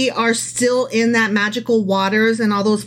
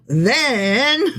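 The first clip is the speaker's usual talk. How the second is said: announced opening word; 3 semitones higher than usual. Shown as a demonstration. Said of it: "So normally I would go".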